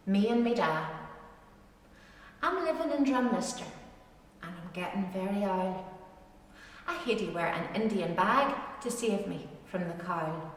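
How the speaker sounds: measured dialect poem reading, rhythmic; poem recitation. Acted. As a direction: recite it like a fireside rhyme. Reads a dialect poem aloud.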